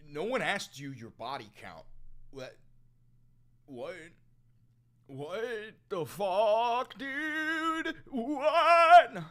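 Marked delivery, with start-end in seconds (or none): 2.3-9.2 yelped much higher and louder; a stunned, shrieking what; shocked. Real, not acted. Reacting to a chat message in loud disbelief.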